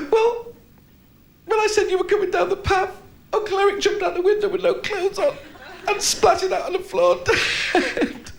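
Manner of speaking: put-on high child's hello; little girl voice. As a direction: answer as the small daughter. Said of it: "the little voice".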